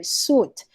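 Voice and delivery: "suit" with a long oo, no W; word without E. Shown as a demonstration. Teacher explaining the spelling, suit with long oo. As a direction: say "suit" as soot, long vowel. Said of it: "If it doesn't have the E".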